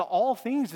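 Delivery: "all things" lifted and leaned on; stress on all things. Shown as a demonstration. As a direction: hit "all things" hard. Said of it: "puts all things in the emphatic position".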